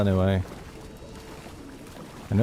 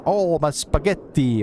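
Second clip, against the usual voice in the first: drawn-out Italian accent, pitched up; mock Italian accent; 4 semitones higher than usual. Shown as a demonstration. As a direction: lightly put on an Italian accent, slowly. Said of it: "it's not like a Italian accent".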